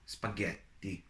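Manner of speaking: "spaghetti" softly, with a held T; "spaghetti" as spa-GHET-ti, softly dictated; marked T sound. Shown as a demonstration. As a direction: hold the T before the last i of "spaghetti". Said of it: "notice that T sound".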